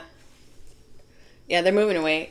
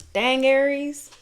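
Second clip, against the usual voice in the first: high, loud surprised exclamation; surprised dang; 8 semitones higher, 5 dB louder, slower than usual. Real, not acted. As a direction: gasp it out at the cards. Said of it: "reacting to the cards".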